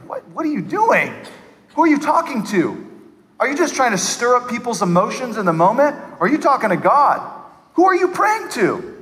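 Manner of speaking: high-pitched, baffled challenge; incredulous questioning. Retold or imitated. Onlooker asking who they are praying to, incredulous. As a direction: question them in disbelief, pitch leaping up.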